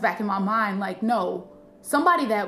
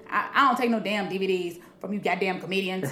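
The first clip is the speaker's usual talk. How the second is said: rough attempt at his accent; Bernie Mac; 2 semitones lower than usual. Veteran comic refusing a newcomer's DVD, imitated accent. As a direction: imitate a gruff comedian's accent. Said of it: "I'm finna probably fuck up his accent completely".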